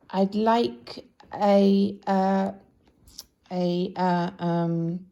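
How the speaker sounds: loud, slow, stalling ums; hesitant groping. Acted. Mister Forgetful at the post office counter, stalling loudly. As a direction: stretch out the fumbling as the word escapes.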